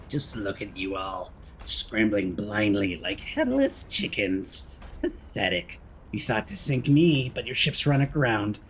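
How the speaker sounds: slow, lightly voiced sinister puppet, mostly drawn out; a hint of a mocking madman reading his farewell note. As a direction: read it as a gloating villain, slow and unhurried. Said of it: "Mad Puppet's message".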